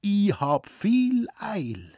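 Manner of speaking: high, slow, half-whispered call; hurried character voice. A narrator's reading. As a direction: call out urgently under the breath. Figur ruft eilig, flüsternd. (hastig geflüsterter Ruf)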